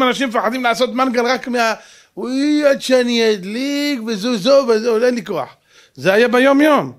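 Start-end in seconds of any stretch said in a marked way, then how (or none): 2.2-5.6 whining impression of a lazy person; mock whiny complaint. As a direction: imitate someone who can't be bothered. Mimics people afraid of barbecue effort.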